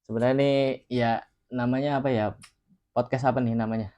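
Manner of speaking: talking around a cigarette; cigarette in mouth. Real, not acted. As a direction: cigarette between lips while speaking. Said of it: "sambil ngerokok ya".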